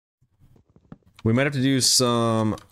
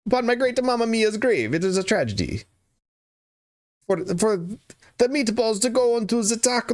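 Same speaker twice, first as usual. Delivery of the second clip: hammed-up Italian accent, raised pitch; 6 semitones higher than usual. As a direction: play up a mock Italian accent, full of drama. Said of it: "you're an Italian stream by accident".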